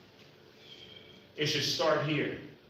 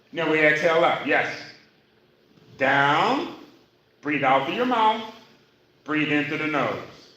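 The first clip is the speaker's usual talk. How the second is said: breathing cues. Acted. Breathing cues during exercise.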